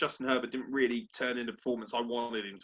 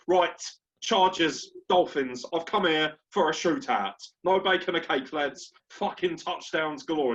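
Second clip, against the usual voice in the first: louder mock gangster bravado; a hint of Tom Hardy's gangster swagger; 4 semitones higher, 5 dB louder than usual. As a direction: storm in like a movie hard man. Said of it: "I felt like Tom Hardy".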